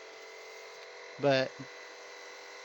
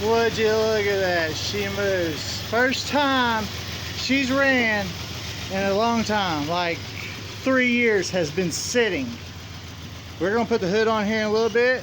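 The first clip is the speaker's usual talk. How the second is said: loud, thrilled and proud; excited; 5 semitones higher, 5 dB louder than usual. Real, not acted. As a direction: cheer as the engine runs. Old tractor finally runs.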